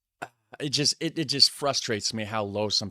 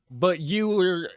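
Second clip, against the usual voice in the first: slow, higher, louder insistence; frustrated emphasis; 7 semitones higher, 5 dB louder, slower than usual. Real, not acted. To the bartender, slowly pressing the point. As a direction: lean hard into the point, slowly.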